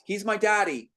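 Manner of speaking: high, loud protest. Acted. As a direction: insist at the top of her voice. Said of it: "Brittany loudly to the nurse".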